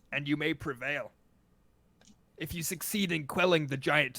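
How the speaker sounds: loud, booming dragonborn envoy; deep Dragonborn voice. Acted. Envoy delivers the great dragon's message to adventurers, deep and booming. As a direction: proclaim it in a big, deep, stately voice. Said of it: "speaks in this low, deep voice".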